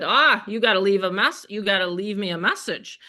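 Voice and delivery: teasing scold; playful scolding. Retold or imitated. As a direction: wag a finger at him, laughing. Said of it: "I scolded him".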